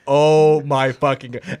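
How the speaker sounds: slow, drawn-out exasperation; exasperated reaction. Retold or imitated. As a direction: stretch it out in retold disbelief. Reacting to drunk friend's antics.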